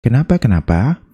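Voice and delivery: a hint of an eager student asking; viewer's question. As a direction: play a curious viewer. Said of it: "ada pertanyaan lagi nih biasanya". (murid yang penasaran bertanya kepada Mister Hu, sedikit bersemangat)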